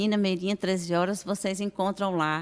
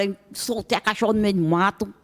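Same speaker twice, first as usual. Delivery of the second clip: usual speaking voice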